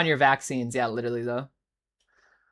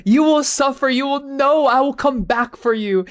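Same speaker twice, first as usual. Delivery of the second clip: mock angry shard; 8 semitones higher, 5 dB louder than usual. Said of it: "He's like".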